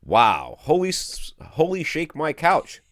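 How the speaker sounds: loud, high-pitched amazed outburst; excited quote. Acted. Reading out a happy customer's email, excited. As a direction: read it out like an awestruck exclamation. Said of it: "the rest of it was from him".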